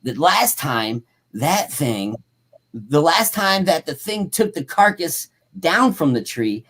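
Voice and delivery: projected, deliberate account reading; story read-aloud. A narrator's reading. Host reading about tracks and yells, story read-aloud. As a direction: read it out with drawn-out phrase endings.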